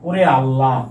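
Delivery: "আল্লাহ" ending on an open vowel, no h; final h dropped. Shown as a demonstration. Teacher shows what people really say, "আল্লাহ" without final h. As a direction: let "আল্লাহ" end without its breathy last sound. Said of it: "উচ্চারণ করার সময় কি বলি".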